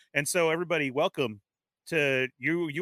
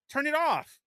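retold yell; 9 semitones higher than usual. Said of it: "And so I yelled out".

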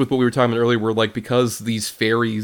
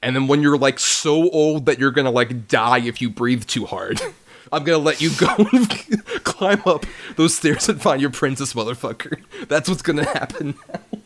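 villain taunt. Retold or imitated. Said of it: "It's like".

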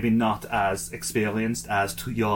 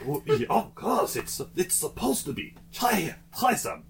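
high, bright French seller; eager French shopkeeper; French accent; 10 semitones higher than usual. Acted. Seller offers mouldy cheese.

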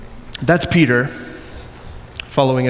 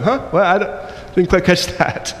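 higher-pitched mock confusion; feigned incomprehension; 6 semitones higher than usual. Preacher mimics Peter sidestepping the question, feigning confusion. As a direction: play dumb in a higher put-on voice.

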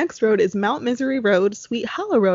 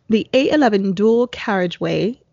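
lightly put-on British accent; a half-joking attempt at a British accent. Reading haunted UK roads to co-host in a mild British accent. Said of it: "try to do this in a British accent".

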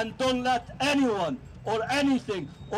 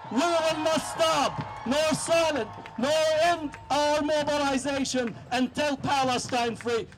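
shouting. Real, not acted. Rally speech, defiant shouted vow.

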